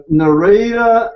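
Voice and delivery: slow southern-accented take on Narita; imitation Southern US accent, drawn out. Shown as a demonstration. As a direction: stretch the name out in a put-on Southern accent. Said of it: "do that in southern accent".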